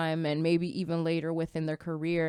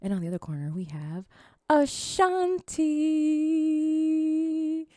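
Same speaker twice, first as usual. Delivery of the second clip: fighting game announcer; 3 semitones higher than usual. Pretend. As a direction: call out the fighters like a boxing MC. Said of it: "My announcer voice".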